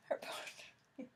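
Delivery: soft whispered confirmation; quiet whispered yes-answer to a friend. Real, not acted. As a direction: breathe it out as a whisper. Confirming in a hushed aside.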